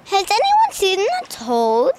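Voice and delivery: slow, careful try at English accent; attempted English accent. Shown as a demonstration. Pupil copying the Hermione line, attempted English accent. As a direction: copy the English accent slowly. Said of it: "Can you do that?".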